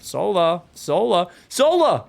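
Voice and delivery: calls building from mild to high and loud; rising warning calls. Real, not acted. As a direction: shout a warning at him. Caster calling out to distracted player.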